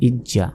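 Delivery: ইজ জা as ij-ja, j closed then released; doubled consonant. Shown as a demonstration. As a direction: sound the j twice in ইজ জা. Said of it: "দুইবার উচ্চারণ হবে". (ইজ জা, জ দুইবার)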